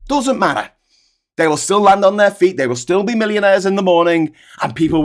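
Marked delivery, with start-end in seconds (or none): 0.1-0.7 "Doesn't matter" said higher, punched; emphatic repeat. Acted. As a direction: tekan "Doesn't" lebih tinggi.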